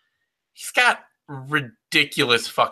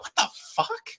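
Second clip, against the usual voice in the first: mock shock; 9 dB quieter than usual. Retelling shock at surprise overhand.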